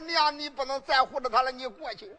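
mild teeth-gritted anger; a touch of seething fury; angry. Acted. Eldest son telling his mother to step aside, mild anger. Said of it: "气得咬牙切齿".

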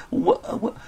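slow, stammering, halting admission; hesitant confession. Acted. Thief hesitantly confessing to the crowd, slow stammer. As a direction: force the words out with shame. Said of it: "犹犹豫豫地".

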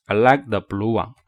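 "like" and "blue" gently weighted; light "the", stressed "like" and "blue". Shown as a demonstration. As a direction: repeat the model, leaning on "like" and "blue". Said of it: "为什么要重读他们两个".

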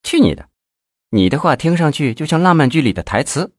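high-pitched coquettish scoff; playfully dismissive. A narrator's reading. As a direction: brush off a lover's flattery teasingly. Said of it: "白了李先法一眼".

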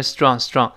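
"strong" as one squeezed "stron" syllable; merged reduced syllables. Shown as a demonstration. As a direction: run the consonants of "strong" together. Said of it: "中间那个turon变成strong".

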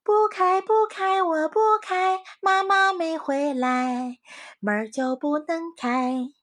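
high, loud, slow no-opening chant; firm refusal. A narrator's reading. Little rabbits refuse the wolf, high and slow. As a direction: refuse flatly, slowing down. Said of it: "小兔子一齐说道".

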